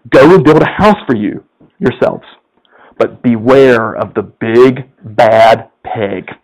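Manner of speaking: hint of a cautioning mother, dropping low; mother's warning.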